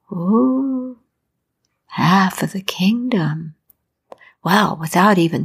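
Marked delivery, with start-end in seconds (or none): 0.1-3.5 whisper. A narrator's reading. Narrator tempted aside.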